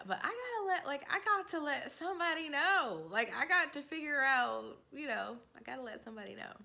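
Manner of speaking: high, urgent rush of worry; urgent panic. Retold or imitated. Retelling her panicked thought, high and urgent. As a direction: panic about telling someone.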